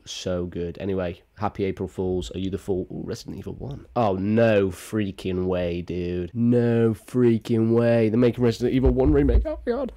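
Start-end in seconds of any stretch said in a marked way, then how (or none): 4.0-6.3 drawn-out amazement. Real, not acted. Amazed at remake news. 6.3-9.9 louder, stretched disbelief; thrilled gamer losing it; genuine excitement. Real, not acted. Excited about Resident Evil remake.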